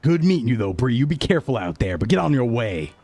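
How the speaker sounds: lightly voiced stern hero moving her along; stern cop character. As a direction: order the stranger on her way, firmly. Jordicus sends Daya away.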